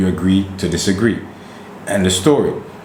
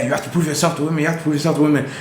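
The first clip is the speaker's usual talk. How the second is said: high, fast mocking of the message; 6 semitones higher, much faster than usual. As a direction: parrot the message sarcastically.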